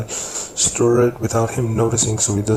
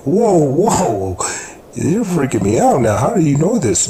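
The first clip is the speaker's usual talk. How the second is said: alarmed and loud, pitched up; freaked out; 8 semitones higher, 9 dB louder than usual. Retold or imitated. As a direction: back away, spooked and loud. Startled by a psychic revelation.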